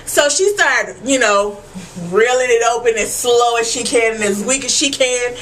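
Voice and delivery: normal talking voice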